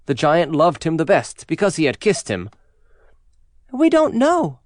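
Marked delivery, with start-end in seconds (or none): 3.7-4.6 put-on high-pitched child voice; storybook children piping up; children's voices. A narrator's reading. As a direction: answer high, like little children. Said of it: "answered the children".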